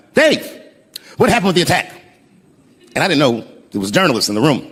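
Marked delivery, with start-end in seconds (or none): 0.1-1.9 high mock yell from the crowd; retold audience shout. Audience member calling out to the comedian, retold shout. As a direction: call it out like a heckler, pitched up. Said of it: "someone in the audience screamed out".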